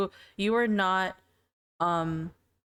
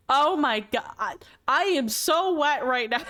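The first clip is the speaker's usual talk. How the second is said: slow, drawn-out, higher mock swoon with a laugh; mock swooning gush; 5 semitones higher, 3 dB louder, slower than usual. Girl gushing over a friend, slow hammed-up swoon. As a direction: stretch it out like a hammed-up fangirl.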